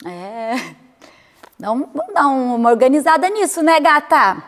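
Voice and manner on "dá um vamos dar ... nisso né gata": higher, louder coaxing voice to herself; playful self-talk. Pretend. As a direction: cheer yourself on, playful.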